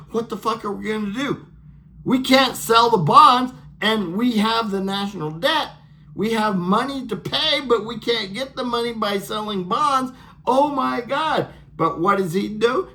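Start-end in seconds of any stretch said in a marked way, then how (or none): 0.1-11.5 higher, hammed-up frantic worrying; mock panic. Officials who can't sell bonds, in mock panic. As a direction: rattle it off like officials losing it. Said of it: "So now they're like".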